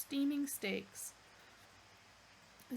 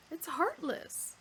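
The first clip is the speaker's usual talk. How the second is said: indignant Arthur; 7 semitones higher, slower than usual. Acted. Arthur protests.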